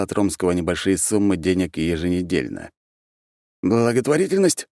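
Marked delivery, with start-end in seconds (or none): 3.6-4.7 high-pitched, questioning interjection; eager friend's raised-pitch voice; butting-in friend. A narrator's reading. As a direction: chip in with a rising guess. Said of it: "влез в разговор Марк".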